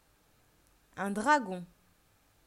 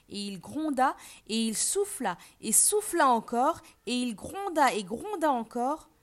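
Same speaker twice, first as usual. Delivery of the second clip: louder, insistent storytelling build; building narration; 3 semitones higher, 5 dB louder than usual. A narrator's reading. Narrator tells of the wolf's repeated huffing, building emphatically. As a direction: pile up each effort with growing emphasis.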